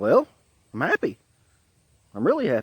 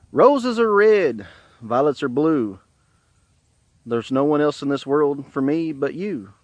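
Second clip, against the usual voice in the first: poem recital; slower than usual. Retold or imitated. Husband reciting a love poem to his wife, poem recital. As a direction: recite a simple rhyme slowly, opening strong.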